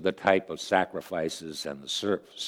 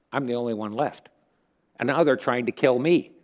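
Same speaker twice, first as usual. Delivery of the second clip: lightly acted, higher-pitched protest; complaining Elijah; 5 semitones higher than usual. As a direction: plead your case with a touch of grievance. Acts out Elijah's complaint to God.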